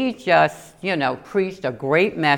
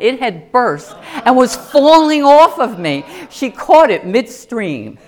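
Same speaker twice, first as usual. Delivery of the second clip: louder, slow, laughing through it; 6 semitones higher, 8 dB louder, slower than usual. Real, not acted. Preacher laughing at her wardrobe mishap, louder.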